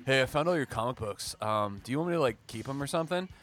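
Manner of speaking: lightly voiced impression of a brother; brother impersonation. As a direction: imitate your brother casually offering something back. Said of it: "let me do my brother impersonation".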